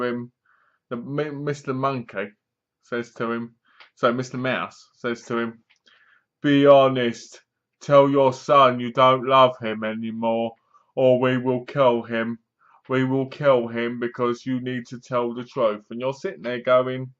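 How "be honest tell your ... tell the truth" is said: retold threat. Torturer to the captive father, retold threat. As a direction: give a measured ultimatum, lightly acted.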